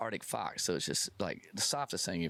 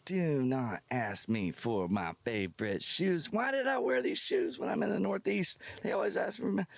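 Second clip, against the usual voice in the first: rising to a high, pleading whine; exasperated inner plea; 9 semitones higher than usual. Retold or imitated. Inner plea to fans for his favorite shoes, climbing into a high whine. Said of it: "I'm like".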